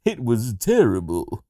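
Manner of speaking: slow, mannered celebrity impression; lightly imitated, drawn-out lament; George Takei. George finishing his confession, slow impression. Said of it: "George came in the next day and said".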